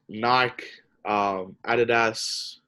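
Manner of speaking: Adidas with a short A and stress up front; AD-uh-das, the Australian way; Australian pronunciation. Shown as a demonstration. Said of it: "It's just the way I say it".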